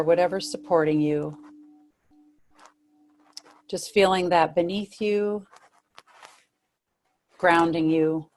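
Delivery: unhurried meditation guidance with long pauses; guided meditation. Real, not acted. Meditation teacher settling listeners into body and breath, guided meditation. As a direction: lead them gently, phrase by phrase, leaving room to breathe.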